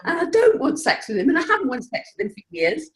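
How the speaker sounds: laughing wife. Retold or imitated. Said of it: "She's like".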